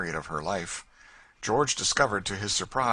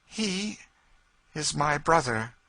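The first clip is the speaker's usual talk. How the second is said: tearful lady; 9 semitones higher, 4 dB louder, slower than usual. Acted. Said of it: "burst into tears".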